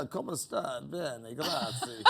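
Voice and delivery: mock Italian accent. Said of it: "If I go into the Zambuca".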